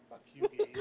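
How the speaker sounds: loud, high outburst at a friend; mock-angry yell. Real, not acted. The speaker yelling at Gabe after being teased, loud. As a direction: shout it, half laughing, half fed up.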